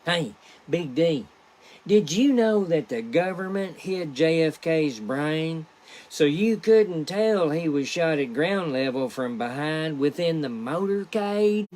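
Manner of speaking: lightly voiced excitable Bobby Ray; a touch of eager conspiracy buddy; voicing Bobby Ray. Bobby Ray tells Big D a conspiracy theory, lightly voiced. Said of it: "Bobby Ray says".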